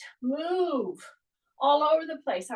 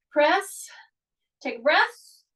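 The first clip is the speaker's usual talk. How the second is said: whispered cue; 4 dB louder, slower than usual. Shown as a demonstration. Coach cueing exercise.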